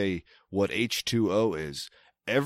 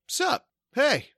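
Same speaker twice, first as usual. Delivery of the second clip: mock dude greeting. Mock vanity plate greeting.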